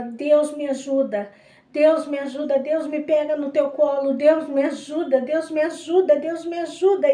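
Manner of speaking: a retold, building cry for help; retold anguished prayer. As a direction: cry out to God, rising in anguish. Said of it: "naquela aflição e chorando e gritando".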